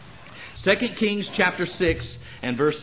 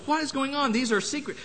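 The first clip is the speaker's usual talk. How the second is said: perplexed; 10 semitones higher than usual. Retold or imitated. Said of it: "He's perplexed".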